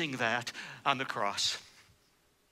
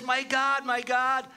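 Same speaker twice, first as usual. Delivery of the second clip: raised high, louder plea of trust; anguished cry; 7 semitones higher, 3 dB louder, slower than usual. Retold or imitated. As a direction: cry out to God from the cross. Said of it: "No, he says".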